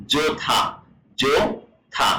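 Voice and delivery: "জোথা" with an aspirated th; Korean pronunciation demo. Shown as a demonstration. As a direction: say "জোথা" syllable by syllable, with a breathy "থা". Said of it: "কোরিয়ানরা উচ্চারণ করবে কি". ("জোথা" থ-এ জোর শ্বাস দিয়ে)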